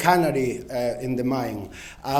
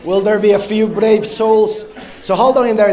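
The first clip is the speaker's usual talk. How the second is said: loud audience call; 5 semitones higher, 8 dB louder than usual. Real, not acted. Speaker urging the conference audience to keep standing, loud and coaxing. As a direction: coax brave volunteers to stay standing.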